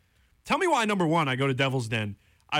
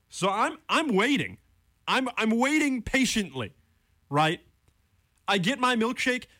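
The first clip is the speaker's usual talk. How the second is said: mock patient; 7 semitones higher than usual. Real, not acted. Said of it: "I'm a little heated".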